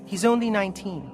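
high, urgent pleading; distraught mother. Acted. Mother explaining her son is missing, distraught.

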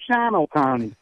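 "Shawano County" said the local way, SHAW-no; local pronunciation. Shown as a demonstration. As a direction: squeeze "Shawano" into two syllables, as locals do. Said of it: "like they call it up there".

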